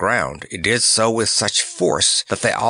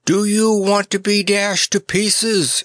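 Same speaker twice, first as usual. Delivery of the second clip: shout; 10 semitones higher than usual. Acted. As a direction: shout back over the storm. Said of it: "shouted Nick in reply".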